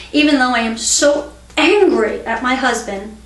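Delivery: demonstrated anger, stressed "so angry"; mildly angry. Shown as a demonstration. Teacher repeating the tapping setup about her husband, mildly angry. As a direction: punch "so angry" with mild exasperation. Third take of angry phrase.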